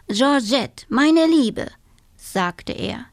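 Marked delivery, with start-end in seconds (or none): 0.1-1.7 higher, effusive toad; effusive toad greeting. Acted. Toad greets his giraffe friend, effusive and higher. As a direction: greet a dear friend grandly.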